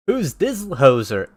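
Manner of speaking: unsure first stab at Canadian; slow, amateur Canadian accent; half-successful Canadian judge. Acted. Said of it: "do a Canadian accent".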